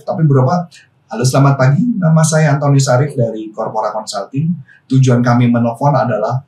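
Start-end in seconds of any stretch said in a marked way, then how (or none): 1.1-6.4 formal sales call read, a bit lower and stiff; stiffly formal phone opening. Shown as a demonstration. Coach mocking a stiff corporate phone call, formal tone. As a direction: sound like a rigid corporate caller. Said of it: "jadi kayak formal banget".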